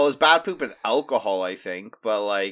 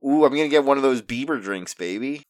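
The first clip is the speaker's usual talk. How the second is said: mock Canadian accent; 3 semitones lower, faster than usual. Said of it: "you're drifting into a Scottish".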